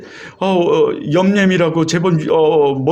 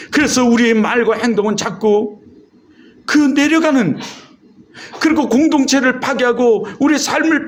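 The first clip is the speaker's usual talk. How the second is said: higher-pitched, driving sermon delivery; preaching; 5 semitones higher than usual. Real, not acted. Pastor warning the congregation about sinful nature, preaching. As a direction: preach it in long, insistent runs.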